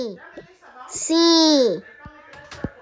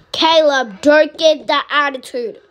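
scolding mom; 2 semitones higher, 5 dB louder than usual. Acted. Mom scolds child Caleb.

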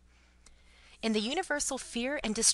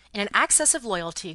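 plain reading voice

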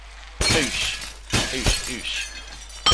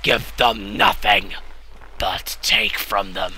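slow, grave warrior-king speech; slow, deliberate rallying of troops; King Leonidas; 3 semitones lower than usual. Retold or imitated. Quoting Leonidas to rally his rider, slow and grave. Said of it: "In the words of King Leonidas".

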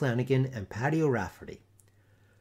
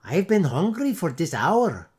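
put-on high, loud Dutch-accented roar; roaring boys; 5 semitones higher, 6 dB louder than usual. A narrator's reading. Boys roaring for their dinner, loud Dutch accent. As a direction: bellow it in hungry outrage.

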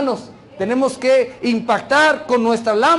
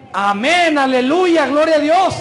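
raised, emphatic praise cry; loud proclamation; 5 semitones higher, 4 dB louder than usual. Shown as a demonstration. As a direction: proclaim it firmly, building in pitch to the end. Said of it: "tenemos que gritar y decir bien fuerte".

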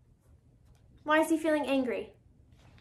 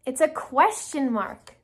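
usual speaking voice

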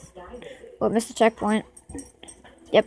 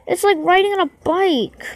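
resigned repeat; 4 semitones higher than usual. Real, not acted. Player still struggling with balance, resigned repeat. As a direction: repeat it as a weary whine, letting "bike" sag.

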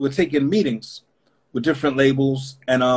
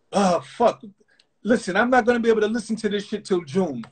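higher, offhand brush-off with a laugh; dismissive label exec; 5 semitones higher than usual. Retold or imitated. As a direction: play the boss who can't be bothered. Leo dismissing the demo.

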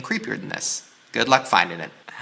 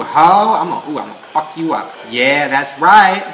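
laughing trash talk; 6 dB louder than usual. Real, not acted. Gloating after winning.

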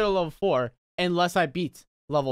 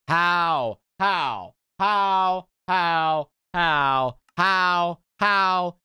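exasperated disbelief; 2 semitones higher, 4 dB louder, much slower than usual. Real, not acted. Repeated disbelief at failing.

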